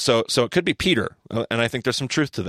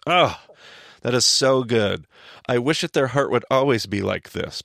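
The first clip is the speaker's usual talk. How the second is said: God; 3 semitones higher, 3 dB louder than usual. Acted. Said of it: "God hears the Israelites, and he goes".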